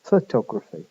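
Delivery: "photography" opening on a weak fuh; reduced first vowel. Shown as a demonstration. Lecturer showing the schwa, weak first syllable in "photography". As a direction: shrink the start of "photography" to a schwa, fuh-TOG-ruh-fee. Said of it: "is now pronounced as f".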